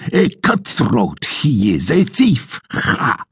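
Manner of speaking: blustering sergeant. Acted. Sergeant's continued tirade.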